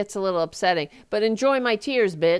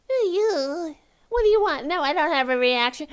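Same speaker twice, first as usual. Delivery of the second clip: much higher, dismissive brush-off voice; mock official; 8 semitones higher than usual. Host imitates officials brushing off a journalist, dismissive. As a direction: wave off the reporter with a fast, careless snub.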